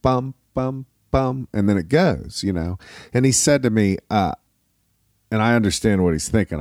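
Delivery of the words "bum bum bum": waltz count-off. Shown as a demonstration. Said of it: "It's a waltz".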